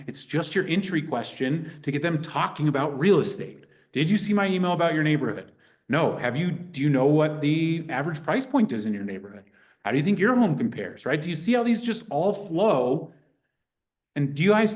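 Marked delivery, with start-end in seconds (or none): 3.9-11.0 confident call demo. Shown as a demonstration. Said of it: "Do you hear the confidence in my voice?".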